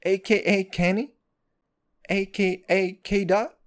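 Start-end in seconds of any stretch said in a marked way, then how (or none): none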